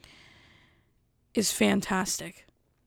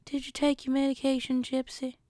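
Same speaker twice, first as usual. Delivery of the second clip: higher-pitched country mother; mother impression; 5 semitones higher than usual. Mother asking Gypsy about medication, higher put-on voice. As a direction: check on your child in a raised, put-on voice. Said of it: "She talks just like".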